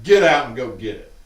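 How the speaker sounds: mom orders. Retold or imitated.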